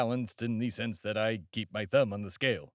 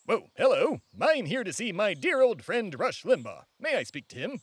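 higher, brash showman voice; pompous host character; 6 semitones higher than usual. Acted. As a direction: barrel in like a self-important pundit. Character greets at the door.

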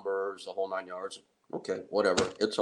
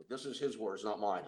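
ordinary delivery

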